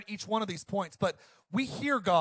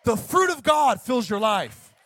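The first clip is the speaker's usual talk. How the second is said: fired-up preacher, louder and slower; 3 semitones higher, 5 dB louder than usual. Real, not acted. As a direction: drive it home, slow and loud. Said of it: "Sorry, I'm fired up".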